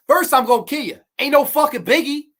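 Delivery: mock manic villain, high and loud; hammy villain. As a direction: ham up a crazed killer's boast. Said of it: "he is absolutely chewing up the scenery".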